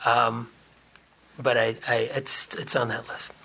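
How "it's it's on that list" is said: whispering. Real, not acted. Sheepish confession, voice drops.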